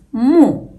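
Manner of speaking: "mu" said alone as one short syllable; isolated syllable. Shown as a demonstration. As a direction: set "mu" apart after a small pause. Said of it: "The first syllable is".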